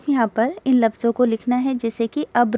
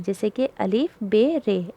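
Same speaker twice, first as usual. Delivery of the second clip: ordinary delivery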